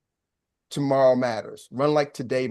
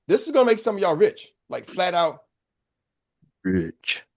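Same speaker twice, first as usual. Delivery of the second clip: radio voice; 5 semitones higher than usual. Shown as a demonstration. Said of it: "Do I sound like a radio voice".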